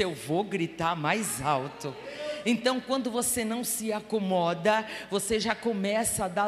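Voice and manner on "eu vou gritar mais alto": grito mais alto. Retold or imitated. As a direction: lower and slower, a real shouted vow. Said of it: "Ele disse". (gritando devagar, voz mais grave)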